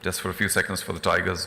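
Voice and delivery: hiccuping, words cut short; quiet, interrupted by hiccups. Real, not acted. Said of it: "Pardon the hiccuping".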